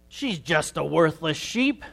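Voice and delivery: slow, contemptuous sneer from the bad shepherd. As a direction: spit it out with scorn, dragging the words. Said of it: "her shepherd sneered".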